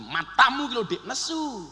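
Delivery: mock snapping. Shown as a demonstration. Husband barking at his wife, mock-angry snap. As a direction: snap it at your wife, half in earnest. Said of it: "Jenengan getak bujin".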